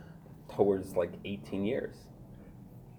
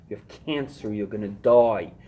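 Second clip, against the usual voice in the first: mock warning shout; 6 dB louder than usual. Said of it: "it drilled into my brain from the old timers".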